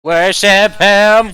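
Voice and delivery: shrill robotic Dalek chant. Acted. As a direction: screech it like a Dalek.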